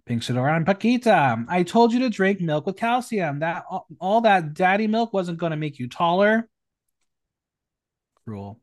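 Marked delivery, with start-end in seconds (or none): 0.1-6.5 lively, projected read-out of a roast; performed drag-roast reading. Acted. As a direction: announce the name, then deliver the jibe. Reads out contestants' roast jokes.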